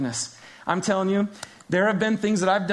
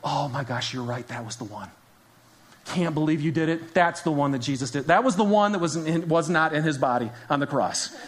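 sarcastic; 2 semitones lower than usual. Retold or imitated. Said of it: "look at them kind of sarcastically and go".

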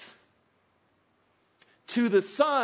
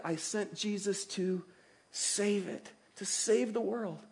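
softer, slower tender promise; gentle softening; 7 dB quieter, slower than usual. Pretend. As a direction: drop the voice tenderly.

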